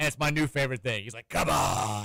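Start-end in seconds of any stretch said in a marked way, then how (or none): 1.3-2.1 very creepy, low horror-movie voice. A dad retells his son mimicking him, in a creepy horror-film voice. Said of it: "in this like very creepy, like horror film type voice".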